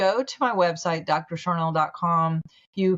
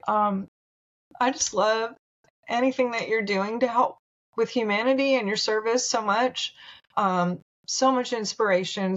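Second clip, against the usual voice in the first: getting emotional; 3 semitones higher than usual. Real, not acted. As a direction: voice lifted with real emotion, close to tears. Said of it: "I'm gonna get emotional".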